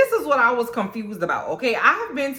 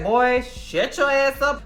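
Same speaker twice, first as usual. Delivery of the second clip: higher, slow sassy put-down; sassy attitude; 5 semitones higher, slower than usual. Retold or imitated. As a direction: snap back with attitude. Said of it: "She got a little oomph on her".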